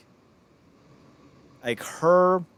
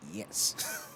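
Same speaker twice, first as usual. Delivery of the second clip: whispered, much softer yes; breathy yes; 6 semitones lower, 11 dB quieter than usual. Retold or imitated. Smitten by an accent locking eyes, whispered yes. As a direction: sigh it out, smitten. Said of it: "it's like".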